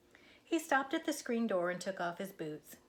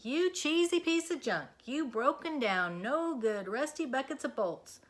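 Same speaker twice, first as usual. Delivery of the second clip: loud, hammed-up scolding; mock tirade; 5 semitones higher, 4 dB louder than usual. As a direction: yell insults at the tractor. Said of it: "Minnie shouted".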